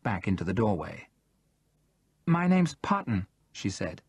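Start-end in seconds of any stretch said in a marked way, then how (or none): 2.3-3.3 timid Jackie. A narrator's reading.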